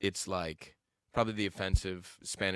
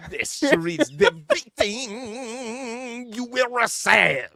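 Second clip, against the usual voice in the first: put-on much higher, very slow Nigerian accent; 13 semitones higher, 10 dB louder, much slower than usual. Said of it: "I love it".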